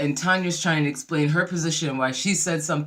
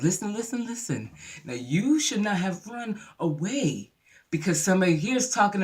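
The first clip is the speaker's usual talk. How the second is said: lightly put-on Southern lecture, somewhat raised; a hint of Southern melodrama; Southern belle accent; 3 semitones higher than usual. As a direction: counsel her like a Southern movie matron. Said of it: "sounded like she was in the fried green tomatoes".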